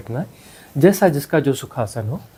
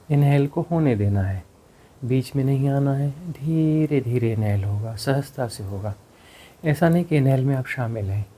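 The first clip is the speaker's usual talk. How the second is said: calm breath cues with long pauses; guided meditation. Real, not acted. Teacher leads meditators through exhale and effortless inhale, guided meditation. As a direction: guide the breathing, leaving silence after each cue.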